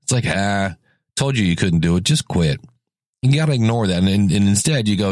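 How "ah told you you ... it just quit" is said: lower, sneering voice of doubt, lightly voiced; a hint of a mocking inner critic, pitched low; nasty inner voice. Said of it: "There's always that voice".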